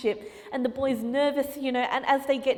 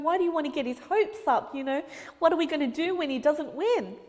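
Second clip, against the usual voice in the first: anxious parents; 3 semitones higher than usual. Acted. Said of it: "his parents were just anxious".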